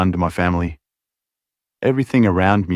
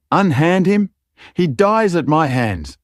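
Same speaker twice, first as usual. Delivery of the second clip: high furious order, slowing; screaming; 9 semitones higher than usual. Acted. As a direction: yell the command in rage. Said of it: "a male voice screamed".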